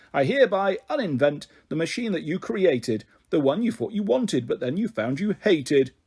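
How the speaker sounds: lightly voiced grand professor; professor's uninventing spell. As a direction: declaim it like a pompous magic spell. Professor casts uninventing rhyme.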